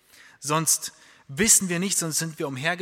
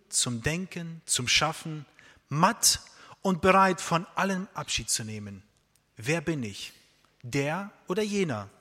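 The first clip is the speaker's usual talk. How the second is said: poem recital; 3 dB louder than usual. Acted. Preacher reciting a prison poem to his church, solemn and measured. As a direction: recite each question gravely to the congregation.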